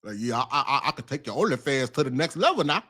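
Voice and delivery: quick, lightly voiced manager pitch; a hint of a hustling manager; imitating a manager. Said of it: "he sound like a manager".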